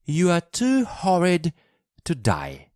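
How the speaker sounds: high, indignant outburst; cross retort. Acted. Child insults a sick boy in a quarrel, cross.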